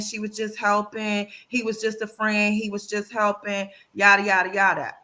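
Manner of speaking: lightly mimicked cheater in an even monotone; mock excuse-making. Mimicking a caught cheater's excuses, in a droning mock excuse. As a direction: reel off rote excuses on one level note.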